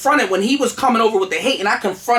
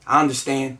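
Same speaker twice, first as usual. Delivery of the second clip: low, calm acknowledgement; unoffended; 6 semitones lower, 3 dB quieter than usual. Retold or imitated. Replying to the threats that were coming, calm and unoffended. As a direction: accept it without taking offense. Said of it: "I didn't even take them offensively".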